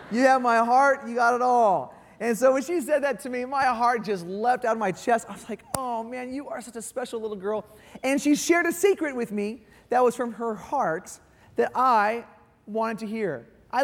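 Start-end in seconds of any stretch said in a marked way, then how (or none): 5.8-7.6 much softer, hushed and tender; tender, moved. Retold or imitated. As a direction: melt as you say it to your little girl. Touched father to daughter.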